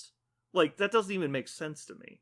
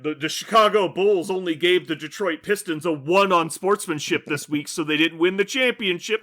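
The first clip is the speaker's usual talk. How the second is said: louder, hammed-up sports-fan grievance; mock lament; 6 dB louder than usual. Fan explaining a lost championship by sportsmanship scores, mock lament. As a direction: push it out as an absurd complaint.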